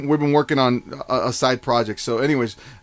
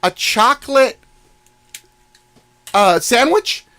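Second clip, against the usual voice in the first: higher put-on lady voice; lightly voiced customer lady; 8 semitones higher, 3 dB louder than usual. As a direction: ask like the oblivious customer. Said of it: "then she says".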